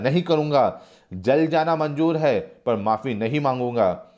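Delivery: acted brave defiance; courageous. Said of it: "Sagar साहसपूर्वक".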